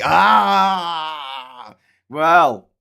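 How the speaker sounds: hammed-up sage starting a lecture; mock exclamation. Loyalist explaining the long game, loud mock-sage outburst.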